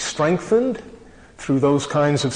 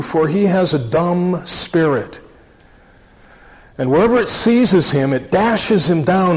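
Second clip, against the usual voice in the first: raised, earnest Bible reading voice; scripture reading. Acted. Preacher reading Mark nine to congregation, earnest and raised. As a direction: read the passage out to the congregation with weight.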